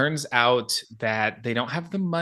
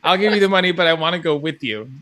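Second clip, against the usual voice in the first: loud, higher bad accent; Herkimer; 5 semitones higher, 6 dB louder, faster than usual. Podcaster finishing the villain's offer, terrible accent. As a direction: press on with the hammy accent. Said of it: "he says".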